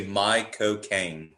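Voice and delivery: slow, deliberate Caine catchphrase; mock Cockney film star; Michael Caine impression. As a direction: lay the pun out slowly. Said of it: "perfect Michael Caine impression".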